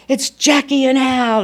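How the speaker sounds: lightly voiced bar crowd greeting; a hint of a welcoming barman; announcing bar regulars. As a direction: call out their arrival, playful. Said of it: "they would say".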